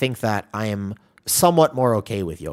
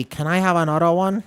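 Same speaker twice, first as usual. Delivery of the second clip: put-on higher childlike voice with a slight Asian accent; the kid asking for more, in a light Asian accent; accidental Asian accent; 7 semitones higher than usual. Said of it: "what do you mean Asian accent".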